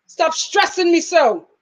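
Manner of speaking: slow, drawn-out mock plea; step-grandmother's saying. Vlogger quoting step-grandmother to nagging viewers, mock exasperated. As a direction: lightly imitate grandmother, stretching it out. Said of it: "Jamaican step grandmother used to say".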